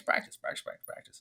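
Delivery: fading to a whisper. Real, not acted. Repeats practice fading.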